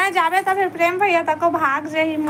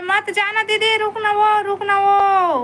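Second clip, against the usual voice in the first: pleading; 4 semitones higher than usual. Real, not acted. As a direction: beg them to stay, stretching the final call. Begging viewer not to leave.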